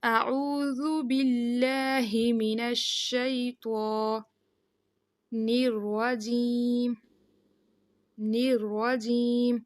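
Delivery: الرجیم with a full heavy ر, very slow; slow recitation. Shown as a demonstration. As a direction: recite the whole taawwuz drawn out. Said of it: "را کو باریک نہیں پڑھنا". (پوری تعوذ آہستہ تلاوت کے انداز میں)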